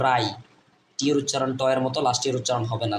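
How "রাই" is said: রাই as "rye", silent W; pronunciation of রাই. Shown as a demonstration. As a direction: sound out রাই starting straight on R. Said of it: "ডাব্লিউ আর আই উচ্চারণ হবে".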